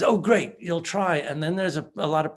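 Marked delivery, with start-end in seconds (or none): 0.0-1.2 mock excited partner, pitched up; higher, eager burst of acted excitement. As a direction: act out an eager partner's delight. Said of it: "gets all excited and says".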